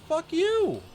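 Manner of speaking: high, loud snapped curse; exasperated yell at a robot phone line; angry. Retold or imitated. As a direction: spit it out in frustration. Angry hang-up at automated phone.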